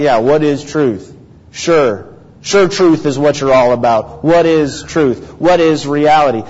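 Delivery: mildly dejected, doubting question. Shown as a demonstration. Preacher acts out Pilate doubting truth can be found, dejected. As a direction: ask it as if there is no hope of an answer. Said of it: "a dejected sort of question".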